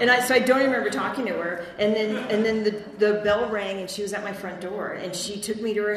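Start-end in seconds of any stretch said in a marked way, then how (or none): 0.0-3.8 excited. Real, not acted. Loud, fast retelling.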